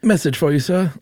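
high, jokey messenger voice; arrow impression. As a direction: deliver it like a comic herald. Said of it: "that's my arrow impression".

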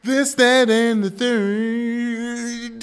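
put-on high surfer Valley Girl drawl. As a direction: play a laid-back surfer girl. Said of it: "the surfer Valley Girl voice".

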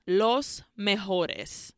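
put-on slow, amateur Spanish accent; horrible Spanish accent. Mustache names the culprits, horrible Spanish accent. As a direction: draw it out in bad Spanish. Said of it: "Again, in a horrible accent".

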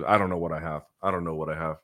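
talking through a sore, swollen throat; hoarse from a swollen throat. Real, not acted. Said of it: "my throat is swollen".

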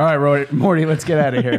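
Rick impression. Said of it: "My Rick is just this".

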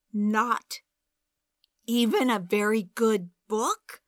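sputtering disbelief. A narrator's reading. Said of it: "I sputtered".

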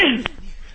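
staged cough after fake inhaling; mock smoker's cough. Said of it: "From your phony smoke".

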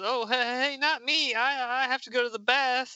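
acted mild panic, trying to back out; flustered refusal. Violet begging off from her teammate, flustered and high. Comic character begging off, read aloud.

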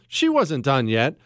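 normal talking voice

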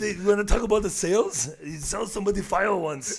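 Arnold Schwarzenegger. Acted. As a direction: punch it out in a mock Austrian accent. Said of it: "Do some Arnold?".

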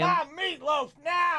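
high, slow, drawn-out holler; hammed-up bratty demand; mock demanding yell. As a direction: holler your order at a parent. Mimicking her yelling for mom.

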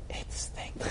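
creepy whispered ad voice. Retold or imitated. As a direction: breathe it like a creepy ad. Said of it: "slightly creepy voice going".

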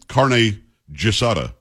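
slow, low GISADA, opening like "jiss"; mistaken pronunciation. Shown as a demonstration. Host recalling an old mistake, mispronounced GISADA. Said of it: "I thought it was".

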